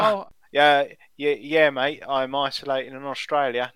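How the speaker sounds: playful mock Aussie greeting to a mate; light hammed-up Australian accent. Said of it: "come out with an Australian accent".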